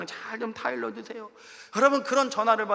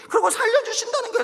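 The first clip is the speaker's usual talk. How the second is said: higher, astonished disbelief; incredulous; 11 semitones higher, 5 dB louder, faster than usual. Real, not acted. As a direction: sound amazed at the reversal. Incredulous at God's change. (어이없다는 듯 놀라며)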